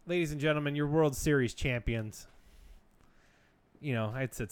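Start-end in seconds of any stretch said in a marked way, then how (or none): 0.1-2.3 mock announcement. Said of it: "I had just exclaimed to the entire bar".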